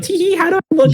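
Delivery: high coy giggle voice; girly voice. Retold or imitated. Showing off her look, high coy girl voice. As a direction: play the coy girlfriend. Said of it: "she's like".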